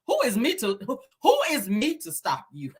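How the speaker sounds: lightly mocking imitation; Wanda. Host repeating Wanda-style question to tease her, light mimicry. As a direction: stumble into her odd phrasing, teasing. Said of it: "Let me talk like you, Wanda".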